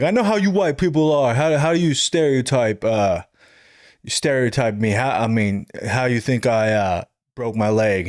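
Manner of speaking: a hint of the comic's put-on voice; imitating comedian. Comedian teasing the big guy in front row, lightly mimicked. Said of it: "he's like".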